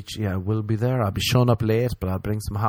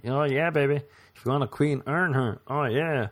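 mock sultry women; 5 semitones higher than usual. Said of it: "All the women were like".

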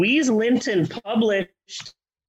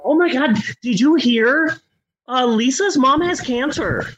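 giddy gossip; 4 semitones higher than usual. Pretend. Gossiping mom voice.

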